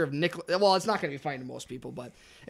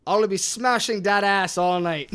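unintended Irish lilt on an attempted accent; accidental Irish accent. Friend reads a dirty card to friends, Irish-sounding accent. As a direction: put on an accent that slips into Irish. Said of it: "I don't know why that was Irish".

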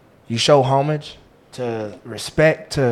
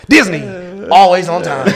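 promo tag, raised pitch and punch; practiced channel shout-out, louder; rehearsed shout-out; 4 semitones higher, 5 dB louder, much slower than usual. Shown as a demonstration. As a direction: hit it like a network ident. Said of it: "I rehearse my shout-outs".

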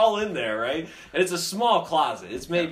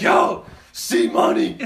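laughing call; 6 semitones higher, 7 dB louder, slower than usual. Retold or imitated. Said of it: "I'm like".

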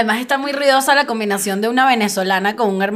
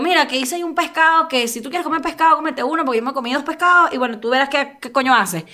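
higher, run-on Venezuelan chatter; Venezuelan, S dropped; 3 semitones higher than usual. Retold or imitated. Telling her roommate about the fish, high Venezuelan accent without S. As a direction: let the Venezuelan accent loose, swallowing every S. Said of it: "me como todas las esas".

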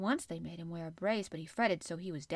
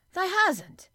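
high, loud burst of disbelief; startled exclamation; 11 semitones higher, 11 dB louder than usual. A narrator's reading. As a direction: blurt it out, shocked, in broad Yorkshire. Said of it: "she exclaimed".

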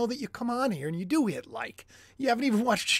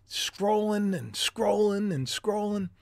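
slow, droning, softer repetition; mock-hypnotized, slow and monotonous; 4 dB quieter, slower than usual. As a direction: drag out each scrolling like a trance. Mimicking endless phone scrolling.

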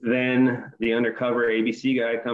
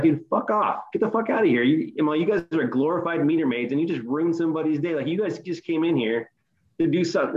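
higher-pitched indignant rant, not shouted; retold telling-off; 5 semitones higher than usual. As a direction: re-enact chewing out a cop.

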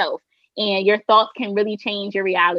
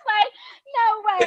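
no-way disbelief; 13 semitones higher, slower than usual. Retold or imitated. Fangirl disbelief.

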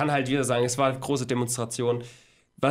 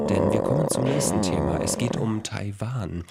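radio voice. Acted. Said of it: "meine Radiostimme einsetzen".

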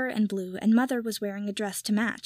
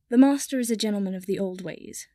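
prim; 3 dB louder than usual. Acted. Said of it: "Kipper said primly".

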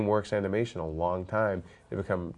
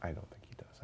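whisper; 18 dB quieter, faster than usual. Real, not acted. Teasing aside about co-host.

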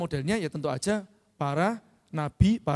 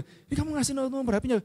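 higher-pitched accusing question; mock scolding; 6 semitones higher than usual. Speaker questions Naja about the shared number, mock scolding. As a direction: act out a mildly cross challenge. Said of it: "Saya marah loh".

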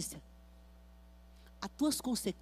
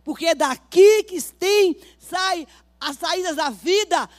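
loud, driving sermon to the congregation; fiery preaching; 8 semitones higher, 11 dB louder than usual. Acted. Pastor warns the congregation, preaching loudly. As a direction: preach it hard, pressing each line home.

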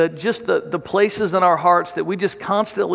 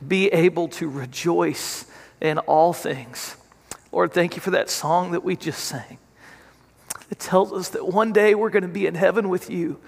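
pastor's prayer. Acted. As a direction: pray over the congregation, unhurried. Leads a congregational prayer.

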